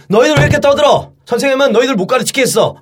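mock scolding, wounded and petulant; sulky teacher. Homeroom teacher to a noisy class before walking out, sulky. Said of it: "담임 선생님이 삐져서 나갔어요".

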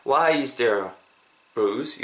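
"Why is there" flowing on towards "bruise"; linked sounds. Shown as a demonstration. Teacher showing connection, "Why is there bruise" linked. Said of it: "요렇게 이어진다는 거죠".

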